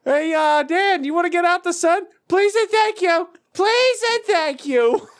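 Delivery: put-on sweet old man.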